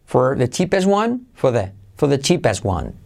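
"for the" as fuh-the, R falls away; dropped R in for. Shown as a demonstration. Teacher drills weak for without R. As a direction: reduce for before the cheapest one. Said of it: "la R decae".

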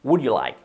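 "Would you like" joined in one smooth run; fluid linking. Shown as a demonstration. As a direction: link "Would" into "you like" without a break. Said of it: "unido con el linking".

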